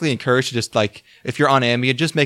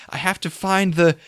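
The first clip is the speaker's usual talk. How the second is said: put-on British accent; 5 semitones higher than usual. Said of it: "she has a British accent for no reason".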